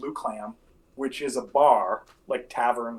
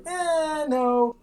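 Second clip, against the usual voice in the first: awkward refusal; 13 semitones higher, 4 dB louder than usual. Retold or imitated. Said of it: "you guys were kinda like".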